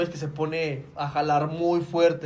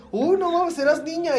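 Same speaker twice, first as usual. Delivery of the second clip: teasing; 9 semitones higher, 4 dB louder than usual. Retold or imitated. Friend teasing him.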